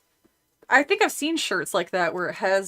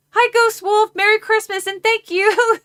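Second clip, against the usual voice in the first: much higher, bubbly shout-out; excited thanks; 12 semitones higher, 6 dB louder than usual. Real, not acted. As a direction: squeal a thank-you to the donor. Thanking a donor on stream.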